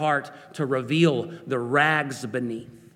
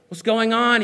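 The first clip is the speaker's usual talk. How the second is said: calling out; 7 semitones higher, 6 dB louder than usual. Acted. Blind man hears passing crowd.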